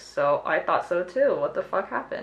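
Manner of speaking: usual speaking voice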